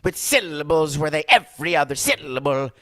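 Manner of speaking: put-on lilting send-up of an Italian accent; mock Italian accent. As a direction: punch every other syllable like a mock Italian. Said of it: "That's how they all talk".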